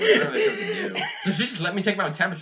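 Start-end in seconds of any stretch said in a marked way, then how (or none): 0.0-1.0 mock panicked nurse, pitched way up; high squeaky mock nurse. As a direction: voice jumps way up into a squeak. Nurse quote, voice cracks high.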